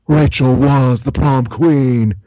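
slow, dead-serious Nick Cage; slow, grave reply from an earnest hero; deadpan Nick Cage. Retold or imitated. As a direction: say it with total seriousness, slowly. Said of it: "with all seriousness, looks right back at him and says".

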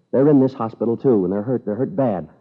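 officer rounding on the boastful father. Acted. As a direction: let the anger break through on hospital. Officer confronts the father angrily.

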